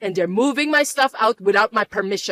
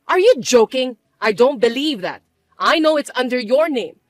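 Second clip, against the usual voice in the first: indignant disbelief; 4 dB louder than usual. Acted. Mother refuses to believe son.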